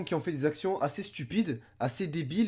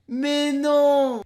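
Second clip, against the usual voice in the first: loud high shocked cry; outraged no; 9 semitones higher, 10 dB louder than usual. Real, not acted. Reacting to a kid's stunt, loud shocked cry. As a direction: shout it in disbelief.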